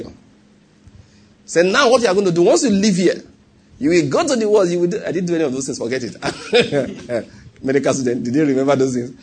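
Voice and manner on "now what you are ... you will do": lightly voiced examiner. Examiner lecturing after forgiving.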